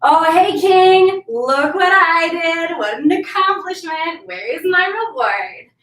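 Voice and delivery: a trickster showing off to the king for his reward; boastful Anansi. Acted. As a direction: brag to the king in a lightly sung voice. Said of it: "and he's like".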